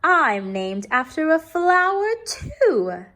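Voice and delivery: teacher proudly revealing her flower name; delighted reveal. Acted. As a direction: share the happy secret. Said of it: "said Missus Twinkle".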